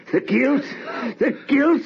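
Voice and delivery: high, climbing hysteria; rising frenzy. Acted. Mounting frenzy before the murder.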